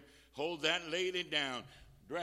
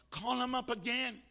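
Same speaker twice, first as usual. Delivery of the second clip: raised, higher-pitched insistent command; insistent urging; 9 semitones higher, 7 dB louder than usual. Real, not acted. Preacher overruling a listener's excuse, insistent urging. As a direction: push back on the excuse, louder and higher.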